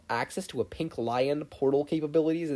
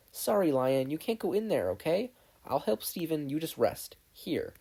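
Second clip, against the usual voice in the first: put-on a bit higher, gentle girl's voice; soothing a big pet, lightly voiced; lightly voiced Connie; 5 semitones higher than usual. Connie calming her lion before helping Steven, lightly voiced.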